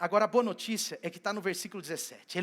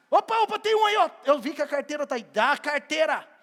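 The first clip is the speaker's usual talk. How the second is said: loud, much higher gotcha; catching someone out; 5 semitones higher, 7 dB louder than usual. Acted. Jesus catching a disciple hiding a wallet, loud playful call. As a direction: bust them playfully.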